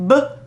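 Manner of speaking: each sound said apart, b, r, ag; segmented sounds. Shown as a demonstration. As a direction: break brag into its sounds. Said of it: "My turn".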